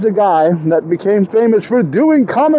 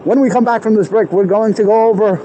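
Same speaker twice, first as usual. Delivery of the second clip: parody commentator. Pretend. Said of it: "doing a parody".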